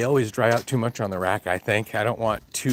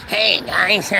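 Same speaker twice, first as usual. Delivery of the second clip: higher, put-on Bam Margera voice; imitating Bam Margera; 5 semitones higher, 4 dB louder than usual. Impersonating Bam Margera for the movie, put-on higher voice. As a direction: play Bam greeting the gang. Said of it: "He has to talk like this all the time".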